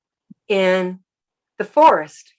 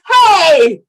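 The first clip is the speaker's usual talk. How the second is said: a higher, louder "Hey!" called back; calling back; 8 semitones higher, 9 dB louder than usual. Retold or imitated. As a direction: answer the call across the water. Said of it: "and he goes".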